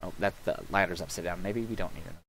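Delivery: soft, low, tired talk; hoarse fading voice. Real, not acted. Streamer with a worn-out voice talking to himself, fading. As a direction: let the voice fade out. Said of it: "my voice is going".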